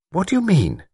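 high-pitched, sharp demand; sharply. A narrator's reading. Woman challenges lord's remark, sharply. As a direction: question him sharply, pitch jumping. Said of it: "Miss Wainfleet said sharply".

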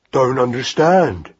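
put-on slow, childlike mouse voice; puzzled young mouse. Mouse baffled by hare's words, slow and puzzled. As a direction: admit it simply, drawn out.

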